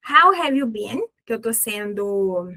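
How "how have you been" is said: neutrally modelled question. Shown as a demonstration. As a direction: ask it neutrally, as a classroom model. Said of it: "neutra aqui".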